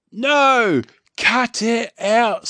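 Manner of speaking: high, loud shouting at the dog; chief yelling. A narrator's reading. Chief shouting at Dog Man licking him, high and loud. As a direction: yell stop at a jumping dog. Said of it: "says the chief".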